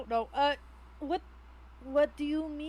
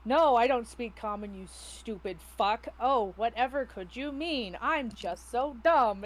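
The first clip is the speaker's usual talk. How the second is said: mock innocence in Dwarvish; slower than usual. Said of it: "she then switches to Dwarvish".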